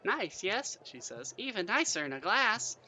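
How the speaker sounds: high, lilting barmaid voice; half-goblin barmaid. A narrator's reading. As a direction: pitch it up like a chatty woman at the bar. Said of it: "One of the bar women catches your smile".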